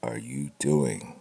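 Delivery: drawn-out, baffled "what are you doing"; mock bewildered question. Quoting people baffled by ramen on a comic, slow mock disbelief. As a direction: slowly stretch out the disbelief. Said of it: "People go".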